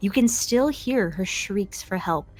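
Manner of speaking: hushed campfire telling; spooky whisper narration. A narrator's reading. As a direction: warn the children in a whisper.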